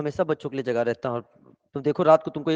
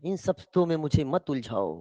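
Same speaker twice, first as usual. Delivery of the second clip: detached refusal; 4 semitones lower, 6 dB quieter than usual. Acted. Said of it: "कहता है".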